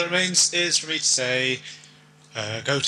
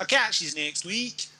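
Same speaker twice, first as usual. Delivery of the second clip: slow, high Glasgow goodbye; drawn-out Glasgow farewell; Glasgow accent; 6 semitones higher, slower than usual. Pretend. Host saying goodbye to listeners in a mock Glasgow accent. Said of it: "I'll go out in a Glasgow accent".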